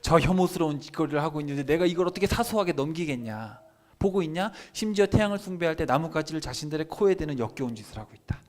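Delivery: acted divine indignation; indignant rebuke. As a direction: scold them in disgust. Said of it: "하나님 뭐라 그러시냐면".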